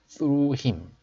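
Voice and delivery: "through" begun with a TH sound. Shown as a demonstration. Teacher pointing out the TH in "through", slow pronunciation model. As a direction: draw out "through", starting on TH. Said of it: "자, 티에이치 발음".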